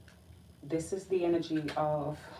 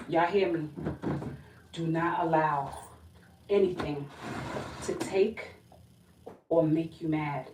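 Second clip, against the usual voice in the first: firm, emphatic warning. Real, not acted. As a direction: lay down the law to the viewers. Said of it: "you gonna have to be strong".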